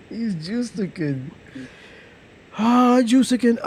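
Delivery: amused repeat through a laugh. Real, not acted. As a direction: chuckle the word out. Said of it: "laughs at joke".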